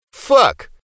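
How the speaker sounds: very high startled yelp; startled curse. Acted. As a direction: blurt the curse in shock. Spotting second monster.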